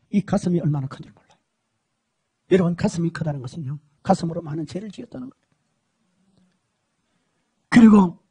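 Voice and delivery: ordinary talk, nothing marked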